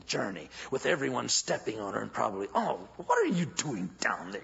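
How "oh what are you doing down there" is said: whispered crowd voice. Acted.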